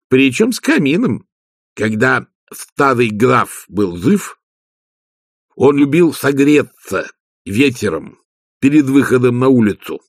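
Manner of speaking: slow, lightly voiced Igor reminiscing; Igor, nostalgic servant. Igor recalls the old count warming himself, slow and wistful. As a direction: servant fondly recalling his old master.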